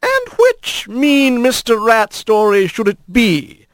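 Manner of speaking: put-on high, slow, smiling old lady voice; grandma playfully asking which story. A narrator's reading. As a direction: ask with a smile in the voice. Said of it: "hear the old opossum smile".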